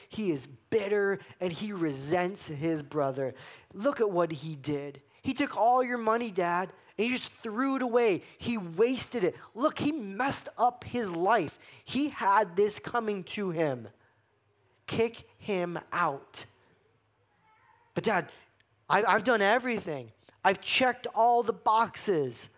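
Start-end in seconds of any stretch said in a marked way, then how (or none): 3.7-16.4 higher, pleading complaint to Dad; resentful older brother. Retold or imitated. 17.9-22.5 higher, insistent mock protest; self-righteous older brother. Older brother pleading his record.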